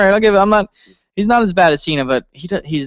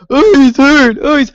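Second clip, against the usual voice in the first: mock referee; 8 semitones higher, 5 dB louder than usual. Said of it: "like every other person".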